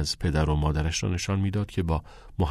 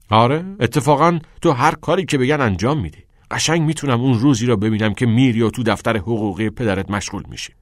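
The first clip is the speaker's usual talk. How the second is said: higher, louder bitter jab at a friend; angry retort; 4 semitones higher, 5 dB louder than usual. Acted. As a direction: throw it back at him in anger. (طعنهٔ عصبانی و بلند)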